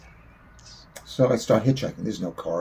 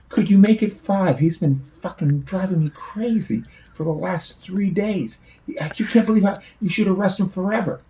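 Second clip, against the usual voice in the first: loud, high, slowed-down pleading; exasperated mock plea; 12 semitones higher, 10 dB louder than usual. Son begging the policeman to lock up his father, loud and high. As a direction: beg the cop to keep him, half joking and loud.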